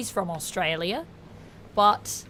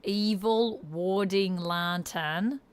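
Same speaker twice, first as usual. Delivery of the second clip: slow Australian accent, placed forward; corrected Australian accent; 3 dB quieter, slower than usual. Shown as a demonstration. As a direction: bring the Australian vowels forward, slowly.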